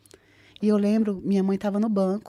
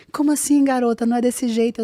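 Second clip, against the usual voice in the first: incredulous friends; 4 semitones higher, 5 dB louder than usual. Retold or imitated. Friends doubting her visa plan.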